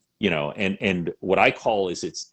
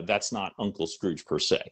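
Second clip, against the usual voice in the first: normal talking voice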